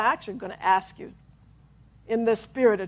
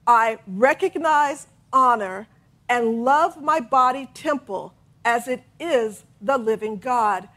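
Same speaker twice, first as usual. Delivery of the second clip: slow affirmation; slower than usual. Shown as a demonstration. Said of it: "I'm gonna say it again".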